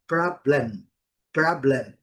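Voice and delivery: problem with a weak schwa. Shown as a demonstration. Teacher modeling problem for the class. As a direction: say problem ending in a schwa and closed lips on m. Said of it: "a boca é fechada ao final".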